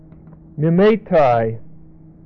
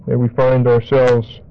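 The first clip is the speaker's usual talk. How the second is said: prayer. Real, not acted. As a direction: pray gently and steadily. Closing prayer.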